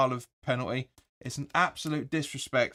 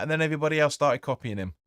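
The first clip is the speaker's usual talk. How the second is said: the word "copying" pushed out; stress on copying; 2 semitones higher than usual. Real, not acted. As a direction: lean on "copying". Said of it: "An emphasis on the word copying".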